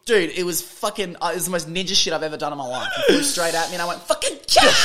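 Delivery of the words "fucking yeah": very high, loud triumphant yell; martial-arts yell mid-chop; battle yell. Retold or imitated. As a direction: scream it as you strike. Karate chopping a diving seagull.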